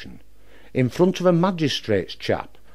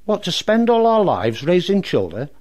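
blazing mother; 4 semitones higher than usual. Acted. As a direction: let her temper flare, slowing on the last words. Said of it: "Mother got proper blazing".

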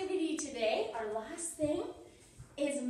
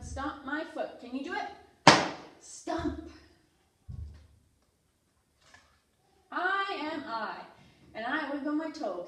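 lively picture-book read-aloud for toddlers; reading to children. Acted. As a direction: read it out to little kids with energy.

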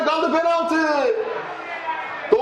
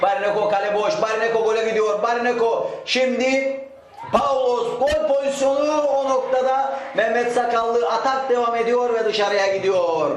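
rising, quicker chance call; excited commentary; 5 semitones higher than usual. Real, not acted. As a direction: build up as the goal opens. Open goal chance missed.

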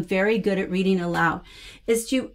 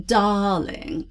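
lightly French, drawn-out "Darling"; a little bit of French on the word; French accent. Shown as a demonstration. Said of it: "a little bit of a French accent".

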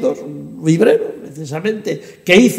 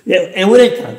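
louder mock cry of discovery; Archimedes; 5 dB louder than usual. Translator imitating Archimedes on finding the meaning, excited. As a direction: call it out like a sudden breakthrough. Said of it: "como hubiera dicho Arquímedes".

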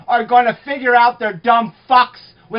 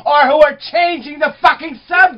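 screaming; 3 semitones higher than usual. Real, not acted. Answering the other guest, raised angry yelling. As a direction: yell it back at her, indignant. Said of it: "You're screaming at me".

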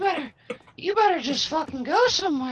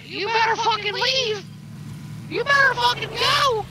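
louder, higher hammed-up threat; mock threatening yell; 8 semitones higher, 3 dB louder than usual. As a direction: bark them off, loud and high. Yelling at approaching enemies.

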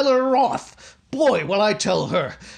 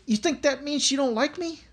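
comic despair; 7 semitones higher than usual. Acted. Suitor sees flowers thrown out.

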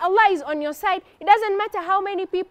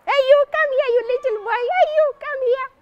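taunting giant; 8 semitones higher, faster than usual. Acted. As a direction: beckon the little boy with scorn. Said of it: "Jalut is looking at Dawood".

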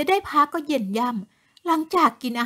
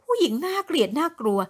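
plain reading voice

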